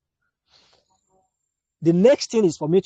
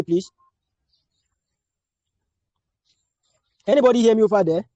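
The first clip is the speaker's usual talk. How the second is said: calling from far away; 3 semitones higher, 4 dB louder than usual. Real, not acted. Checking if online class hears.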